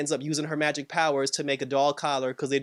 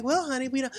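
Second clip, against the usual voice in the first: high mock-wife voice; Wanda; 9 semitones higher than usual. Wanda answering her husband about the children, high imitation. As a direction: pitch it well up, imitating a sitcom wife. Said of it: "So then she was just like".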